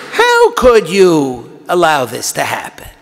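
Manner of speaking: slow, pained challenge to God; accusing lament. Shown as a demonstration. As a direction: demand an answer, aggrieved and unhurried. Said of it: "read it with the right tone of voice".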